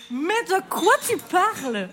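Pierre interloqué, voix haute et lente; réagissez, stupéfait, à l'accusation; Pierre Bonnard joué. Acted. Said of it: "je fais Pierre Bonnard". (Pierre Bonnard sidéré, voix haute et traînante)

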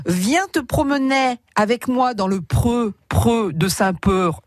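slow, "preux" said with an eu vowel instead of pré; words without their accents. Shown as a demonstration. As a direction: drag it out, "preux de Saint-Peur". (mots prononcés sans leurs accents, lentement)

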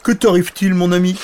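loud, high-pitched dragon question; hammed-up friendly dragon; curious dragon. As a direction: ask the tiny fellow with big curiosity. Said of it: "il regarda avec curiosité le petit bonhomme".

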